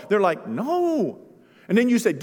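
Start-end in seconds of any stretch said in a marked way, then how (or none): 0.5-1.2 high, pouty no; child refusing to go home; mock whiny refusal. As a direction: act the stubborn child.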